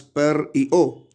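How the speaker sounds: slow, split the word into per and o; syllables split slowly. Shown as a demonstration. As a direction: pause between per and o. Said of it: "palabra perro los morfemas".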